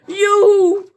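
loud high yoo-hoo; drawn-out shouted call. Acted. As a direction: holler cheerily to someone far below. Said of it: "die schreeuwen naar beneden".

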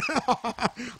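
imitated children's laugh. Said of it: "అని నవ్వారు".

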